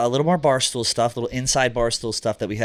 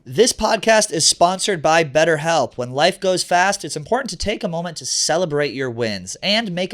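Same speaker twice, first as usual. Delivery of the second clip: ad read. Acted. Sponsor read.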